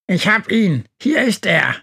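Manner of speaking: high, cawing crow voice. A narrator's reading. Crow shouts to friends he found him, crowing. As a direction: crow it out like an excited bird. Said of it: "kräht Günther".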